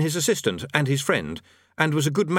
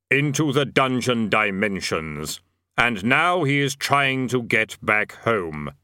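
Death voice; slower than usual. A narrator's reading. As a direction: intone it slowly as Death. Death speaks.

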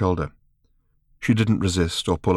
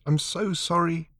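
1 sad apology; 8 semitones higher, 6 dB quieter, slower than usual. A narrator's reading.

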